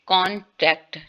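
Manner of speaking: कॉन्ट्रैक्ट spoken as an example; demo word contract. Shown as a demonstration. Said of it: "जैसे कि".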